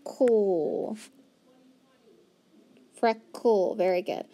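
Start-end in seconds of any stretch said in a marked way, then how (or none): 0.0-1.0 "cool" drawn out as kul; isolated, lengthened "cool"; syllable sound. Shown as a demonstration. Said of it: "then you hear the". 3.0-3.7 "Freckle" split as freck, kul; slowly segmented "Freckle"; syllable by syllable. Shown as a demonstration. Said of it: "then you hear the".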